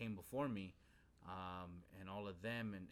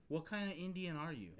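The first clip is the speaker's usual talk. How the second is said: imitating his disbelief, higher and louder; retold incredulous question; 9 semitones higher, 6 dB louder than usual. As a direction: act out a loud, baffled question. Retold disbelieving, pitying question about his ignorance.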